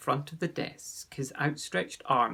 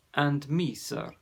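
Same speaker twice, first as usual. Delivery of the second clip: humble. Acted. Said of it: "asked Ossian humbly".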